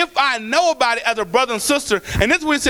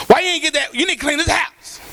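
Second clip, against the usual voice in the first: a sharp, scolding nag; scolding someone about a dirty house; harsh, not gentle; 2 semitones higher than usual. Shown as a demonstration. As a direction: snap at them like a fed-up parent. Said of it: "That's not gentle".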